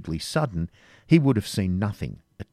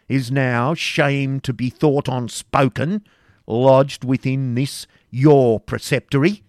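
much louder and higher, slowing at the end; furious demand; 6 semitones higher, 7 dB louder than usual. A narrator's reading. Grand Master denouncing the preceptor, furious. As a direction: thunder the accusation.

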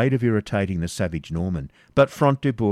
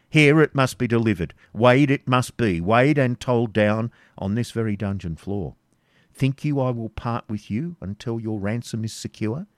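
stern Baron; 3 semitones higher than usual. Acted. Front de Boeuf dictating ransom terms to Isaac. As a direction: lay down the terms coldly.

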